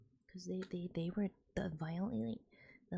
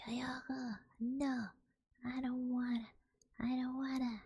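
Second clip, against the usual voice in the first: mock a stubborn grandpa who just wants home; whiny drunk refusal; 6 semitones higher than usual. Grandpa refusing treatment, retold.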